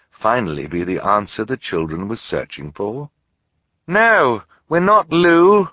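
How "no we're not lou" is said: high, loud call across the store. A narrator's reading. Violet calling to the hidden shopkeeper, loud and high. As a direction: call out to an unseen man. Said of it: "Violet called out".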